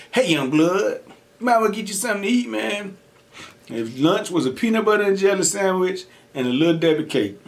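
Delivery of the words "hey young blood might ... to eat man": inmate voice. Retold or imitated. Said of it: "I'm gonna say he called me young blood".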